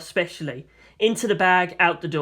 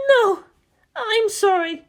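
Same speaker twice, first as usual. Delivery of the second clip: sobbed apology; 4 dB louder, slower than usual. A narrator's reading. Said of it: "she sobbed out as well".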